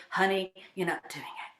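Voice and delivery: a hint of the teasing coach voice; lightly mock the coach correcting her; imitating Dane. Guest imitating her coach telling her she's doing it wrong. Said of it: "He said".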